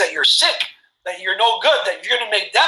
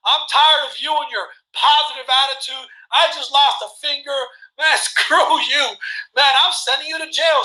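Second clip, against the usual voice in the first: mock angry king; 3 semitones higher than usual. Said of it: "he was so mad".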